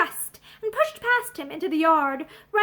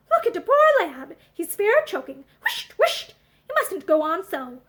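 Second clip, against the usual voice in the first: scolding housewife; 2 semitones higher, 4 dB louder than usual. Acted. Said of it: "she cried".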